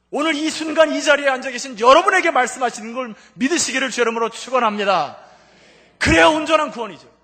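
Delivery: loud, high, impassioned preaching; preacher shouting a blessing over the congregation; fervent preaching. Acted. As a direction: drive the blessing home at full force. Preaching at full force.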